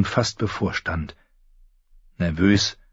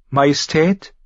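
soft trembling call; 8 semitones higher, 4 dB louder than usual. A narrator's reading. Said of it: "rief sie mit weicher, bebender Stimme".

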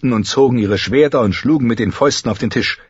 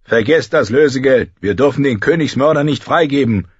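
emphatic objection, higher in pitch; called out; 6 semitones higher, 4 dB louder than usual. A narrator's reading. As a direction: cry out against the deal, moderately raised. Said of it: "rief Rickard Karstark".

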